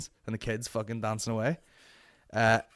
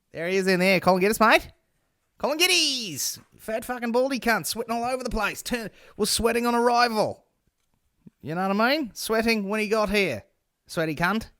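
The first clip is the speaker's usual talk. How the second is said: much higher, louder mocking bloke voice; mock staff guy; 11 semitones higher, 5 dB louder than usual. Staff guy telling Frank about Colin, high mocking voice. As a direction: ham up the guy slagging him off. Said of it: "And he's went".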